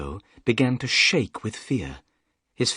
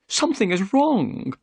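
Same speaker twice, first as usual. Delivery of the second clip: higher, eager gentleman's voice; Thaddeus Sholto; 10 semitones higher, 3 dB louder than usual. A narrator's reading. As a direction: voice the excitable host. Sholto's voice in the story.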